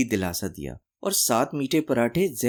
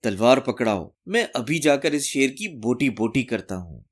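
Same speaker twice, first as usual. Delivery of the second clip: mild mock bravado, voice lifted a little; lightly raised boast for the wife to hear. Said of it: "ऊंची आवाज में बोले".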